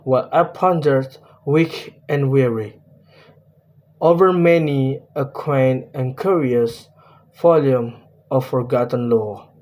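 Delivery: reading the verse in a measured poem voice; steady verse reading falling at line ends; poem recitation. Shown as a demonstration. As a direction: recite the stanza as an example. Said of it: "let me tell the example".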